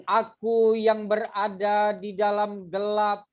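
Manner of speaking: slow, measured reading of a poem line. Shown as a demonstration. Teacher reading a sample poem line to students, slow and measured. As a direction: read it slowly, letting each word sit. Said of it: "Kalau ada kata begitu".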